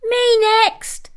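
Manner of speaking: high squeaky eager pup; small pup calling his turn; tiny puppy voice. A narrator's reading. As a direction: squeak it with a little pup's eagerness.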